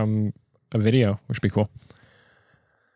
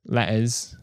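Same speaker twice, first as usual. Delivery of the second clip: British accent dropping hard letters. Shown as a demonstration. Explaining dropped letters, in a British accent. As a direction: slip into British, swallowing the hard consonants. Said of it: "it starts to turn into something like this".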